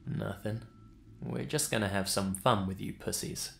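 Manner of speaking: put-on lightly slurred, quiet and drunken; a hint of a drunken slur. A narrator's reading. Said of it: "in a very slurred voice".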